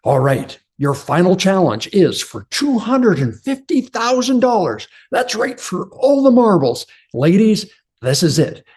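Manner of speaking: game show host hyping the final challenge. Retold or imitated. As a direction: build the tension for the big prize. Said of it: "The host is going".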